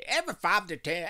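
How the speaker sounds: loud, high country twang on the opener. Shown as a demonstration. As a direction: read it like a country announcer. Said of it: "I sound like a country".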